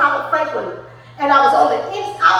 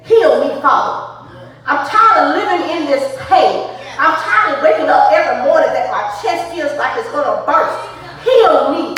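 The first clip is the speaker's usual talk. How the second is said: louder, pressing plea to God; fervent prayer; 4 dB louder than usual. Acted. Woman crying out to God in her pain, fervent and loud. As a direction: pray it out, raw and urgent.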